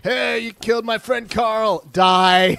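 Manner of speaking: mock game character. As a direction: play a revenge-bent friend. Voicing game character quote.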